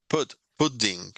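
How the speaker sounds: pudding with a small pause before the d; doubled consonant. Shown as a demonstration. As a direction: split pudding into pud-ding slowly. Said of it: "una pausita y otra". (pronunciación de pudding con pausa en la d)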